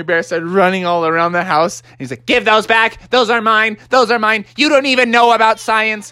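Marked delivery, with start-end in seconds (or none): 2.3-6.1 whiny demand. Acted. Techno Bear demands shoes back.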